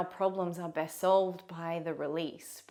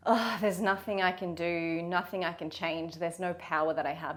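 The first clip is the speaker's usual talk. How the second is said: lightly acted resigned sigh of words; a touch of mock helplessness; mock resignation. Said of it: "not in that resigned".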